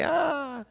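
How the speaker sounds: high, drawn-out "ah"; long high-pitched mock cry; mock group reaction. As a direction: imitate a room reacting to a joke. Room reacts to the wisecrack.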